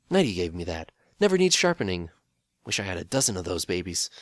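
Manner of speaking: casual handyman, pitch jumping up; proud, offhand tool talk; Phil. Acted. The handyman pony showing off his favourite dagger, casual. Phil voice bragging about tools.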